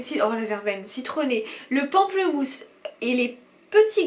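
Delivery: animated promotional reading; product blurb read-out. Acted. Vlogger reading a balm's blurb to viewers, promotional read-out. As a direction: read the copy out like an ad.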